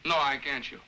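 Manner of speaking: talking through hiccups; words broken by a hiccup. Real, not acted. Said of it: "I have the hiccups".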